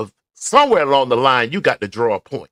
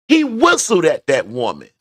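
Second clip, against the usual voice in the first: ordinary delivery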